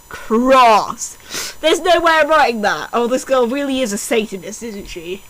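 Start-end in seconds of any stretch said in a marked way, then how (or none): none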